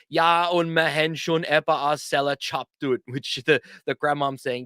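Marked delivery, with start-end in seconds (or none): 0.1-3.0 lightly voiced grandmother from the kitchen; a hint of a wry old grandmom; grandmother's voice. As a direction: call it dryly from the kitchen. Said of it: "the voice from the kitchen say".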